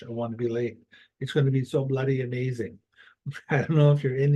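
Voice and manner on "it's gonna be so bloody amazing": put-on English accent, lightly done. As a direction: play at being English for a moment. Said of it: "I don't know why I'm being English".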